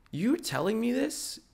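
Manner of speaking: high, slow disbelief; drawn-out incredulous question. Acted. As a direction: pitch it way up, offended question. Incredulous at his friend.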